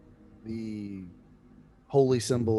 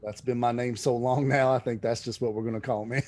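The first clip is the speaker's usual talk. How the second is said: folksy abbot. Acted. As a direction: chuckle at your own name. Abbot jokes about his name.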